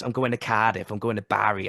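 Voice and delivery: South Wales accent. Shown as a demonstration. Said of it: "Very harsh".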